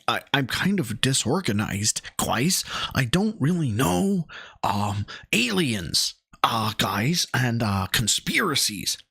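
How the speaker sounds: halting, mildly awkward imitation; imitated awkwardness. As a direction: fumble for topics like a disorganized host. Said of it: "he looked very awkward".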